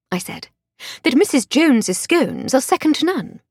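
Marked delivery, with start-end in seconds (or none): 1.0-3.4 higher, refined English lady; posh lady voice. Acted. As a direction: play the genteel lady of the house. Voiced Lady Hardcastle dialogue.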